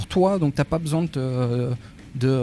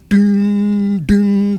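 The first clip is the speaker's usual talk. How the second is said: slow, loud ringing ding ding; bell ding imitation; 5 semitones higher, 9 dB louder than usual. A narrator's reading. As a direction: ring it out like a tolling bell. Bell sound heard by creature.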